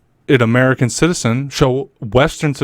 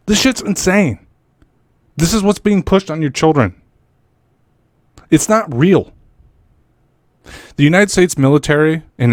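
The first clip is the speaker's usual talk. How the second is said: fired-up angry rant, pitch raised; heated rant; 2 semitones higher than usual. Real, not acted. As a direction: rail against it, heated and swearing. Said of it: "I'm getting a little heated with this one".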